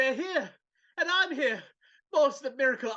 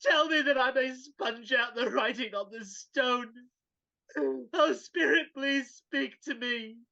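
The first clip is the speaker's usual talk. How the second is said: tearful plea. Acted. Scrooge begs the Spirit.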